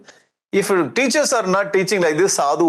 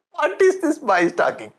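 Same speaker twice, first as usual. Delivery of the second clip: higher, sharp scolding of his son; angry father demon; 7 semitones higher than usual. Acted. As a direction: scold the boy like an outraged demon king. Storyteller acts angry Hiranyakashipu.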